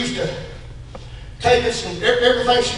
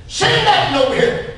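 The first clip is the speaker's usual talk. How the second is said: high-pitched summons; calling over; 8 semitones higher than usual. Acted. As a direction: call someone across the street. Jesus calling the blind man over.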